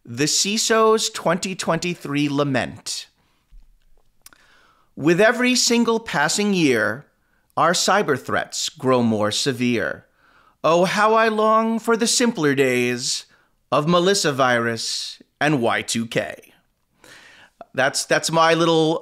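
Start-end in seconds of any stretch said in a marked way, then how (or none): 0.0-3.1 title announcement. Acted. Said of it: "and I call it". 5.0-16.5 mock yearning. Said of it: "I'm gonna go first with mine".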